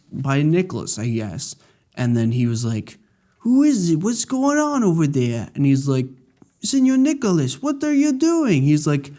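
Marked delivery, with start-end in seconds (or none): 3.4-5.5 squeaky startled crewman, voiced high; a quick high pitched put-on voice; lightly hammed-up sailor calling out; high mock character voice. Retelling game character line. 6.6-8.6 very high, startled put-on voice; hammed-up high-pitched victim; high mock voice. Voicing a shocked passenger.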